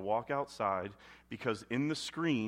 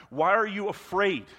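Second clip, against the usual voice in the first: 1 louder question; 6 semitones higher, 7 dB louder than usual. Acted. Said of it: "And God's like".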